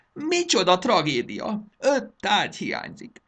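loud, high-pitched tirade; frantic theatrical outrage; raging lament. Acted. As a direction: rant as if disaster has struck. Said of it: "dühöngött".

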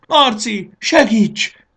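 very high, loud scream for help; desperate cry. A narrator's reading. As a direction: cry out for rescue in panic. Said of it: "kiáltott Fanny kétségbe esetten". (kétségbeesett, hangos segélykiáltás)

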